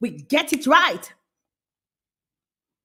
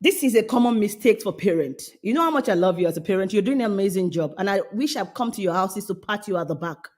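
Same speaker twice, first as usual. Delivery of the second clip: pampering; 3 semitones lower than usual. Real, not acted. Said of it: "now let me pamper you".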